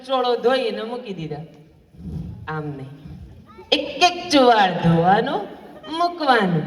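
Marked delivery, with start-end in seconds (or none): 2.5-6.6 slow, lightly voiced nagging mother-in-law; fussy mother-in-law. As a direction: drag each word out to nag her. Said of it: "બેટા, ધોઈ દે".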